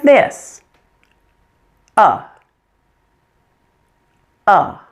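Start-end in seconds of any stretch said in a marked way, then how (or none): 2.0-4.8 "uh" with slack jaw and tongue; relaxed schwa. Shown as a demonstration. Teacher showing learners a schwa without tension, relaxed. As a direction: let "uh" drop out of a loosely open mouth. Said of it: "relax all the muscles of your face".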